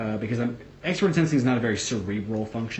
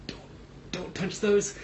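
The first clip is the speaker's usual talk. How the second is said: high whine; 10 semitones higher, slower than usual. Retold or imitated. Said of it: "I'd be like".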